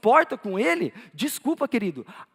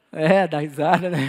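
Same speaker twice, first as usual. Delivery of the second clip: low, amused laughing remark; 5 semitones lower, 5 dB louder than usual. Real, not acted. Pastor teasing the congregation for laughing, laughing as he speaks. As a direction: let a chuckle break through as you tease.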